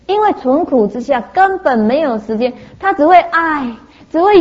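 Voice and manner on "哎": higher-pitched cry of "ai"; mock cry of pain. Mimicking beings in hell who can only cry out, mock wail. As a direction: wail out a pained "ai".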